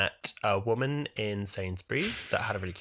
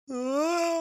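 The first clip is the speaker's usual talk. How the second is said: distant oh; 4 dB quieter than usual. Retold or imitated. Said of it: "in the distance, like".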